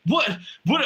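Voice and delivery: put-on shocked kid. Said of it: "And I'm like".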